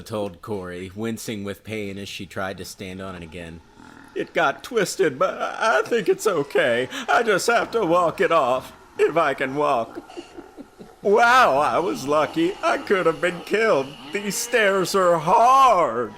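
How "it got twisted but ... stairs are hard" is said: put-on high, bright young girl voice; teen girl voice. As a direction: play the girl Lisa, a little shaken. Reads the girl's lines.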